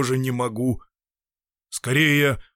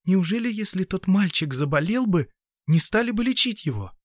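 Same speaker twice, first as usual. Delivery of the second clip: put-on higher, earnest girl's voice; young woman asking; 7 semitones higher than usual. Anna asks the doctor about the sick boy, higher and earnest. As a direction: ask him, honestly puzzled. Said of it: "Она спросила".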